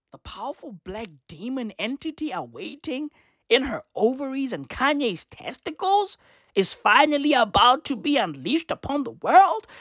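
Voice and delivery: swooping disbelief, rising at the end; incredulous repeat. Retold or imitated. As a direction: quote it back as a question.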